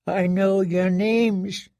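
high, slow, cracked murmur; broken prisoner. A narrator's reading. Prisoner naming the squires, high and slow. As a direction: speak through cracked lips.

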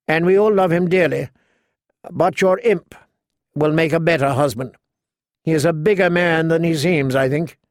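lightly voiced courtly knight; a touch of chivalrous sincerity; gallant knight, earnest. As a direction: kindly counsel a lady, lightly in character. Garland counsels Sansa as they dance.

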